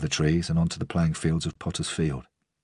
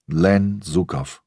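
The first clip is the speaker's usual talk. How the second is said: put-on Russian accent; 2 semitones higher, much slower than usual. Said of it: "The accent was Russian".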